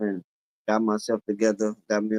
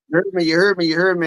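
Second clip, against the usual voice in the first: imitated verbal tic; 6 semitones higher, 3 dB louder, faster than usual. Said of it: "after every word".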